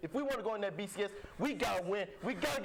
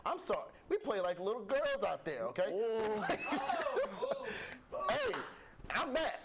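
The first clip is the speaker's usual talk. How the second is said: Jackson Jeffcoat impression. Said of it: "I'm gonna be Jackson Jeffco now".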